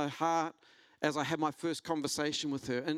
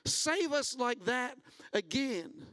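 high, slow pleading; pleading cry; 8 semitones higher, slower than usual. Retold or imitated. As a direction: beg God earnestly, drawing it out. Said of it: "they're crying out".

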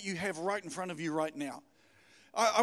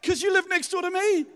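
chuckling, raised and loud; laughing reply; 10 semitones higher, 7 dB louder than usual. Pretend. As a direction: laugh as you answer. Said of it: "And they go".

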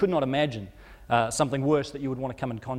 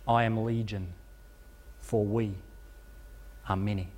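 lower, darker demon voice; a hint of a voice from deep within; 4 semitones lower, 4 dB quieter than usual. Legion of demons answering Jesus from within the man, low and ominous. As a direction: let it come up from deep inside, many voices in one. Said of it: "from deep within him, the voice responds".

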